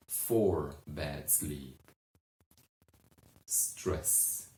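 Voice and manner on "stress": breathy whisper of the word; a hushed, dramatic whisper. Shown as a demonstration. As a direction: whisper it for effect.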